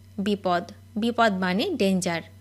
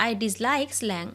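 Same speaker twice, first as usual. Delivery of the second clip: very slow, word by word; each word drawn out for learners to copy; slow dictation; much slower than usual. Shown as a demonstration. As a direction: spell it out slowly for the class. Repeated slowly for learners.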